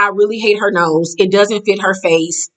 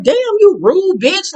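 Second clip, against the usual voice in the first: high, slow appalled exclamation; mock outrage; 10 semitones higher, slower than usual. Vlogger scolding the rude castmate, appalled. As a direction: drag it out, offended.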